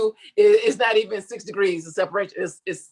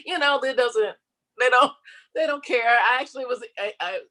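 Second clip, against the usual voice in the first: ordinary talk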